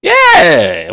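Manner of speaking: high yelping dog voice. Shown as a demonstration. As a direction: bark it out like a dog. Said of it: "Where my dog voice at? I got a dog voice".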